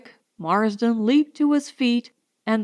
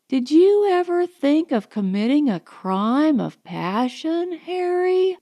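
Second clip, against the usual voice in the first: coy Allison. Acted. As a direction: toy with him, ending on a lilting question. Allison teasing, provocative.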